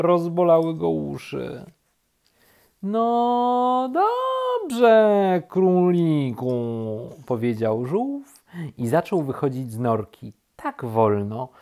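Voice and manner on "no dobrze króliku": high, drawn-out, resigned turtle reply; slow turtle. A narrator's reading. Turtle agrees to leave rabbit alone, very slowly. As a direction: draw out each word at a crawl. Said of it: "powiedziało zwierzę bardzo wolno".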